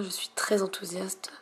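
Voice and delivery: unvoiced excited whisper. Real, not acted. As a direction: whisper it, barely voiced. Whispering at night.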